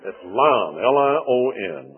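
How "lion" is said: lion as a single "lahn"; Southern pronunciation. Shown as a demonstration. Preacher spelling out his word, Southern one-syllable lion. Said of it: "I have to stop and pronounce the other".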